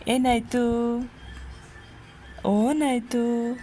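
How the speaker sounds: run-together repeated hushing words. Real, not acted. Parent to crying baby, don't cry, rolling soothing chant.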